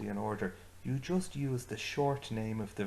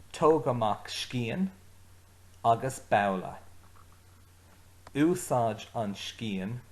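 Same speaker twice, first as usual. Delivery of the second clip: giving orders; 3 dB louder than usual. Retold or imitated. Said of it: "I'm giving orders here".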